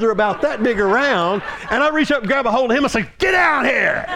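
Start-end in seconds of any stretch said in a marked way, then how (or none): 1.7-4.0 fast urgent shout; urgent call. Retold or imitated. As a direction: shout him up to the front. Preacher retells urgent altar call.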